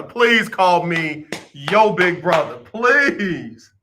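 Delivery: drawn-out begging; slow pleading. Acted. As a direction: plead slowly, mock earnest. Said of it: "repeated pleading request".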